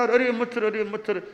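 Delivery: mock flustered guru. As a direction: tease the guru by mimicking his yelp. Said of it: "ऐसे बोलने लग गए". (गुरु की घबराई पुकार की हँसी भरी नकल)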